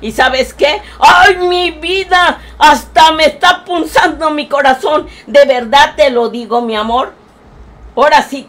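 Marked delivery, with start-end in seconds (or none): 1.0-2.4 emotional cry. Acted. Heartfelt outburst to grandson.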